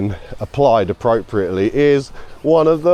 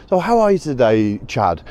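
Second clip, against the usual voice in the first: put-on American accent. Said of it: "Oh, I love the Americans".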